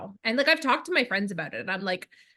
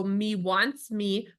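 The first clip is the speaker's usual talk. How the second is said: put-on 1 Sesame Street toddler; much slower than usual. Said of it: "so she would go".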